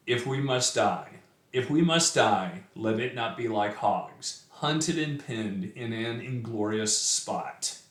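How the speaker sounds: measured, solemn reading of the verse; a gentle recital voice; poem reading. Acted. Reads the poem aloud.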